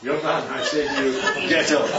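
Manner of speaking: laughing mock command to a sleeper; playful wake-up call. Preacher to a late sleeper, laughing mock command. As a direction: tease someone still lying in bed. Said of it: "a verse for someone lying in bed in the morning".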